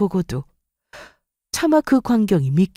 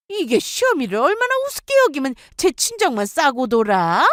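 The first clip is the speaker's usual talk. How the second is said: mother-in-law scolding; 3 semitones higher than usual. Acted. Mother-in-law lectures her daughter-in-law, high and sneering.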